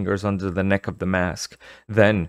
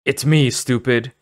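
gruff taunt; 6 semitones higher, 5 dB louder than usual. Acted. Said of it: "she cried".

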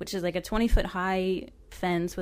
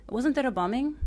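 put-on higher, louder question in an Arabic accent; 6 semitones higher, 4 dB louder than usual. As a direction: probe him in an Arabic accent. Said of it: "I butcher Arabic accents".

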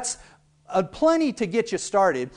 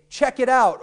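casual exclamation; 6 semitones higher, 4 dB louder than usual. Shown as a demonstration. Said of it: "we might say".

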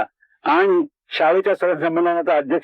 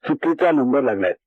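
calmly; 3 semitones lower than usual. Retold or imitated. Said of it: "तरी मी शांतपणे म्हणालो".

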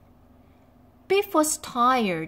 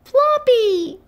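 high, loud calling of a name; long loud searching call; 8 dB louder than usual. A narrator's reading. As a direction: call out to find the lost dog. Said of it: "called Biff".

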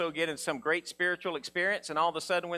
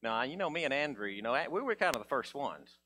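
mock Peter boasting; 5 semitones lower, 8 dB quieter than usual.

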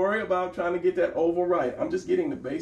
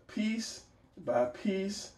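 slow and deliberate; 5 semitones higher, 6 dB quieter, much slower than usual. Shown as a demonstration. Drawing taught bit by bit.

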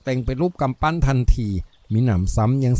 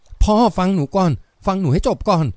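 decisive, firm; 6 semitones higher than usual. A narrator's reading. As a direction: cut firmly across an angry father. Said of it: "เสียงแม่ลูกสาวเฉียบขาด". (เสียงลูกสาวเฉียบขาด)

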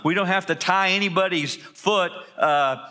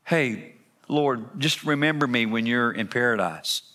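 pleading thief. Retold or imitated. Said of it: "you hear one say".

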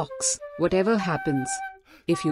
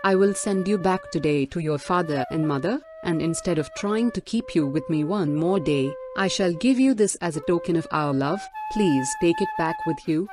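softer, resigned, sorrowful princess; 6 dB quieter than usual. A narrator's reading. Princess sending her husband home, soft and sorrowful. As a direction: give the token softly, with quiet sorrow. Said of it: "said the princess sorrowfully".

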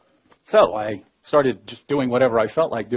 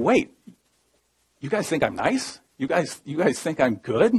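higher-pitched, questioning, rising at each end; retold disbelief; 4 semitones higher than usual. Prisoner suddenly realizes others think him good, incredulous. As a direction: replay a startled inner double-take.

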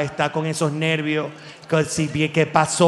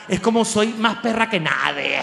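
mock sassy dumped woman; 3 semitones higher than usual. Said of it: "Cuando una mujer es dejada".

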